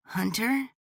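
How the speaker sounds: put-on high, suddenly awake little boy; a kid spotting a friend; surprised child voice. A narrator's reading. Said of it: "Cade's sleepy voice suddenly sounded awake".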